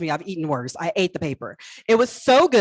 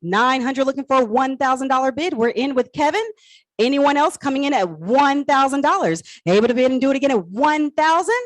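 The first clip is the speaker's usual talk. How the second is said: auctioneer; 3 semitones higher than usual. Acted. Calls bids to close lot.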